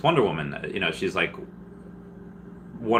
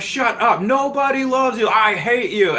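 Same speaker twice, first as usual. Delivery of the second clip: high, loud mock yell; 5 dB louder, slower than usual. Imitating a buddy yelling insults at her in jest. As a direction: shriek it like an outraged friend. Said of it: "and I was like".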